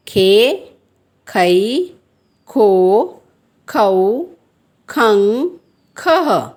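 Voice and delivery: each syllable from खे to खह said apart; teacher reading barakhadi aloud; syllable drill. Shown as a demonstration. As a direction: recite the syllables one by one. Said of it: "जैसे".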